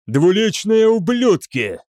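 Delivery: high, drawn-out angry yell; furious shout. A narrator's reading. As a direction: curse them at the top of the voice. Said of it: "закричал Намаджира". (яростный протяжный крик)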